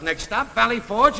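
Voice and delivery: rising conductor-style call; yelled out. Retold or imitated. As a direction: call the stop out to the whole bus. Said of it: "I yelled out".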